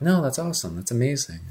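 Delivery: high, hammed-up fake excitement; mock enthusiasm. Girlfriend humoring him about football, mock-enthusiastic. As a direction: gush over it without meaning a word. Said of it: "They're like".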